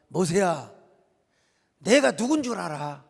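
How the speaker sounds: measured reply with pauses between phrases; unhurried and assured. Acted. God calmly answering Moses's complaint, assured. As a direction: answer with easy authority, in no hurry. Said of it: "여유 있고 너끈한 대답".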